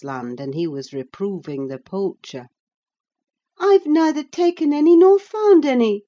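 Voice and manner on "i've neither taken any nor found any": put-on higher, louder bright young girl; eager girl Cathy. A narrator's reading. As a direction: call out like a lively girl on the moor. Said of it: "she said".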